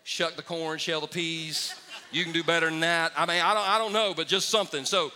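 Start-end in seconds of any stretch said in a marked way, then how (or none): 2.1-4.8 coaxing the crowd. Real, not acted. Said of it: "I'm gonna ask that again".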